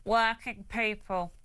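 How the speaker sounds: nasal, drawn-out impression with nose held; nasal Starmer voice. Shown as a demonstration. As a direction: pinch your nose and say it slowly. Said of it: "let me hold my nose so it's really nasal".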